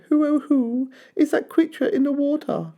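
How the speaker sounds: put-on gentle baby dinosaur pleading; little Drip. A narrator's reading. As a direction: apologise like a small shy dinosaur. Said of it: "he asked them".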